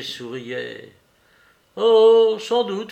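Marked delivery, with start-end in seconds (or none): 1.8-2.9 amused. A narrator's reading. Larrier amused reply.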